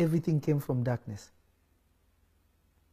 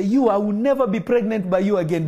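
mock angry outburst; 5 semitones higher, 4 dB louder than usual. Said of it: "women will even look at you and say".

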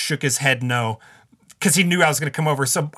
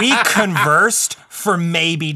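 laughing; 3 semitones higher, much slower than usual. Real, not acted. Laughs heard on line.

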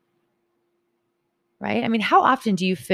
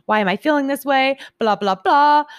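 raised, mock-frantic self-questioning ending in a higher, louder blah blah blah; frantic inner rant; 4 semitones higher, 4 dB louder than usual. Retelling her inner voice to viewers, higher, mock-frantic rant. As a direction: rattle off your spiral of panicked thoughts half mockingly.

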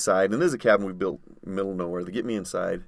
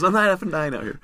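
high, loud, frantic yell; yelling quote; 9 semitones higher, 4 dB louder than usual. Retold or imitated. Brian yelling at injured friend on snowmobile, high loud yell. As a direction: shout it in his face to keep him going.

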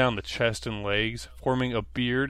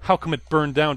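louder mock demand; 5 semitones higher, 6 dB louder than usual. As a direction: press him for an answer. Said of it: "demanded Gary".

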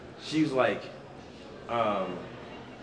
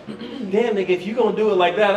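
mock sassy woman; 7 semitones higher, 5 dB louder than usual. Woman reacting during sex, retold.

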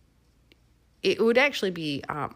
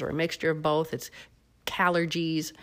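gravelly voice. Real, not acted. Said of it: "try my gravelly voice because I don't know if I've got a cold".

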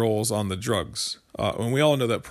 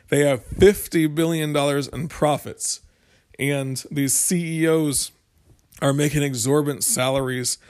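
lightly imitated senator's accent, pitched up; Bernie Sanders; 4 semitones higher, 4 dB louder than usual. Host quoting the senator on drug profits, light accent imitation. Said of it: "very hard time doing accents and impersonating".

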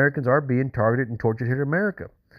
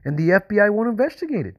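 agitated; 8 semitones higher than usual. Real, not acted. Caller pleading with FBI operator.

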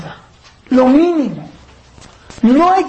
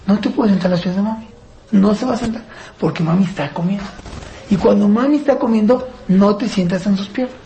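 steady, direct father setting a limit without yelling; calm firm command. Shown as a demonstration. Father tells child at the Shabbat table, calm and firm. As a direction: say it straight and firm, no shouting. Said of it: "Tranquilo, sin gritar, directo, fuerte y firme".

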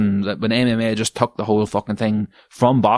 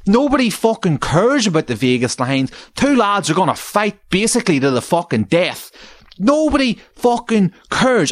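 exasperated rant; 9 semitones higher than usual. Acted. Ranting at betting show.

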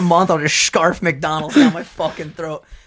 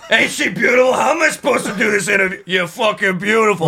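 imitating Vin Diesel, hammed up; mock creepy flirting; 4 semitones higher than usual. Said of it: "he's just like".

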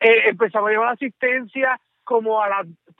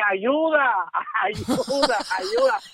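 retold cry for help; 5 semitones higher, much slower than usual. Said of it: "empezamos a gritarle".

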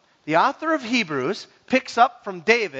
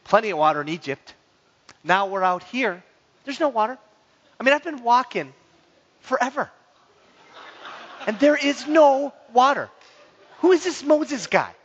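a hint of gossiping women over coffee; two women grumbling; 3 semitones higher than usual. Women grumbling about Moses over espresso, mildly indignant. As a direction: complain lightly, building to higher indignation. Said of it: "maybe two women over an espresso talking".

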